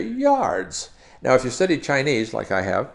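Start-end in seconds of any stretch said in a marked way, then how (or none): 0.0-0.9 very high British "Yards", swooping down; exaggerated British falling tone; British accent. Shown as a demonstration. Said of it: "And in British, they say".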